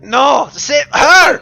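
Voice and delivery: high, desperate shout; trapped man screaming to save someone else; aggressive protest. Acted. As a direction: yell it in frantic protest. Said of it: "you hear him protesting aggressively".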